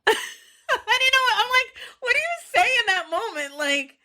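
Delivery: very high, squeaky laughing voice; laughing helplessly. Real, not acted. Telling y'all about being asked for a kiss, laughing helplessly.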